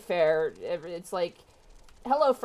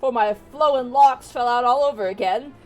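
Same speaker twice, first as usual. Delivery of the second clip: lightly voiced cranky bald man; gruff old man; 3 semitones higher, 5 dB louder than usual. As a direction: grumble and rant as a bitter old fellow.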